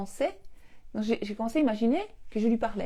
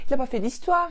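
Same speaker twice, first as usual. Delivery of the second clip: louder, higher proud boasting; excited boasting; 5 semitones higher, 6 dB louder than usual. Retold or imitated. Wife bragging to husband about the trick, excited. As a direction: brag like a thrilled child.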